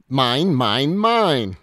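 very loud roar climbing high; booming possessive cheer, rising at the end; joyful roar. A narrator's reading. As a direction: finish with a triumphant roar.

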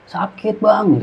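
very high, held-back mock shrieks; imitated pained scream. Injured hiker shrieking to his friend about his leg, imitated scream. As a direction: squeal in pain without full volume. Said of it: "Dia ngejerit".

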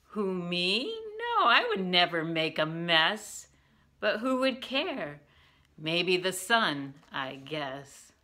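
lilting ditty with big swoops up; playful poem recital. Acted. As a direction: recite it playfully, pitch leaping and dropping.

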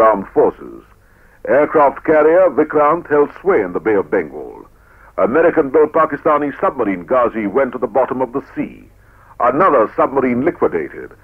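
stirring newsreel narration; proud, rousing war report; old newsreel. Acted.

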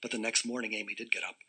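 ordinary delivery

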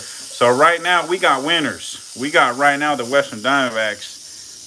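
slow, drawn-out announcement of the winners; mock ringside winner announcement; announcer call. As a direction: announce it like a ringmaster.

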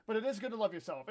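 earnest, with weight on "is"; mean it this time, stressing "is"; sincere. Real, not acted. Streamer correcting a sarcastic-sounding line to a viewer, sincere. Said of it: "I know that sounded sarcastic, but".

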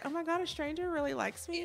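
high, thrilled disbelief; excited disbelief. Retold or imitated. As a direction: gush like a flattered fan. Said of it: "at first I was like".

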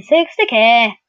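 Canadian accent. Real, not acted. Gamer repeating a player's price, Canadian accent. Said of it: "talking like I'm Canadian".

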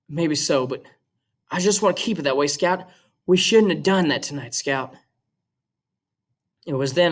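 steady, even read-aloud voice; reading a novel aloud to students; story narration. A narrator's reading. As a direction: read the chapter to the class. Teacher reads novel aloud to class.

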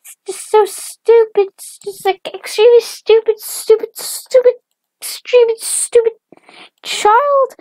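very high, loud, rapid-fire tirade; shrieky cartoon mom, hammering every insult; hateful mom rant. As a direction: rant on and on in a squeaky put-on voice. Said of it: "who still hates her".

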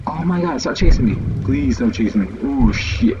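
panicked pleading, rising pitch; frantic begging while fleeing; being chased. Real, not acted. Enemies chasing him in game.

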